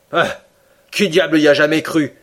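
the Canadian scoffs at the idea of giant octopuses; exclaiming. A narrator's reading. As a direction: toss the question out in disbelief. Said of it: "s'écria le Canadien".

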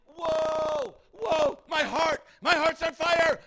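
breathless, rising excitement; excited disciples. Acted. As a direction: cry out with a heart on fire. Disciples' excited retold exclamation.

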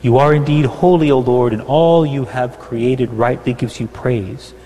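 ordinary talk

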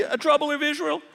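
incredulous echo. Retold or imitated. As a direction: scoff at the word troubler as absurd. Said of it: "Elijah said".

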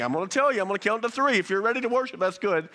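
a hint of an exasperated parent counting; king as fed-up parent. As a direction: lightly play Nebuchadnezzar as a scolding mom. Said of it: "saying the same thing".

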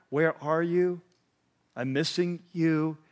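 slow, gentle call of a loving father; tender father. Retold or imitated. Preacher voicing God as a tender father calling, slow and gentle. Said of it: "a tender father?".

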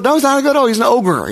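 preacher rebutting his own imagined objector, insisting; emphatic rebuttal. Real, not acted. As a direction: hammer home he's an ogre.

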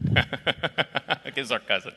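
words dragged out through laughter; acted helpless laughing fit, very slow; laughing on mute. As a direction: mimic cracking up where the caller can't hear. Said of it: "hit the mute button and said".

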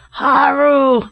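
high, drawn-out rallying yell. A narrator's reading. Larry answers the captain's roar, yelling. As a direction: cry it out to someone far off. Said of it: "yelled Larry in reply".

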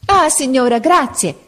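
put-on a boy's grateful shout; crying out. A narrator's reading. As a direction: call out in sudden hope. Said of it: "gridò Marco".

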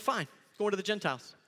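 acted huffy resignation, brisk; frustrated. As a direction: play a fed-up man giving up. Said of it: "he gets so frustrated".

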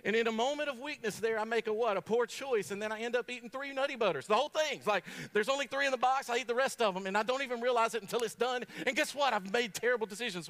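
worked up. Acted. Building self-mocking rant.

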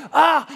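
loud, high "ah" of dismay; acted outburst of suffering; exasperated cry. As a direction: cry out as a fed-up Jonah. Jonah reacts to scorching wind.

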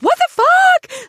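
high, loud mock outrage; retold outburst. Retelling his disgust at the shirt, mock outrage. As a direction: blurt it out in disgust.

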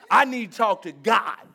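"God" punched hard at the end; fed-up plea with emphasis on "God"; stress on God. Retold or imitated. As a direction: land heavily on the word "God". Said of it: "We put an emphasis on that".

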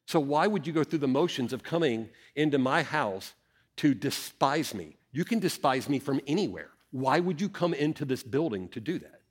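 soft, grave questioning in God's voice; heavy words. Acted. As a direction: quietly press the rebuke, voice held down. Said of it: "the really heavy words".

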